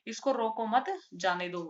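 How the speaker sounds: इसको रोको मत, break, जाने दो; pause after मत. Shown as a demonstration. Teacher restates the let-him-go meaning, pause after मत. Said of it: "यानी कि".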